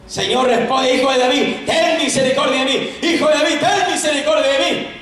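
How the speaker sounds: crying out. Acted. Desperate woman begging the Lord for mercy, crying out. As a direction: call out urgently for mercy. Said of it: "la voz de ella ya estaba retumbando".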